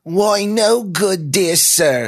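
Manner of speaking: high, loud, hammed-up snobbish British accent; a comic's bad take on posh British. Dominic mocking Norman as coffee patron, snobbish British accent. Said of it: "in a snobbish British accent".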